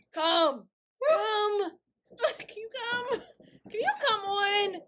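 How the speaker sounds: laughing plea. Real, not acted. Pleading through laughter.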